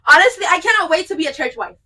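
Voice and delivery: hammed-up tearful excitement; mock emotional. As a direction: gush as if overcome with joy. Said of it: "sorry, I'm getting emotional".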